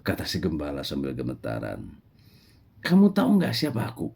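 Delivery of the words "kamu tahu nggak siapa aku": high, sharp scolding voice; stern prophet Musa. Acted. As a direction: call him over and scold him. Musa confronts the shepherd. (Musa menegur dengan suara tinggi)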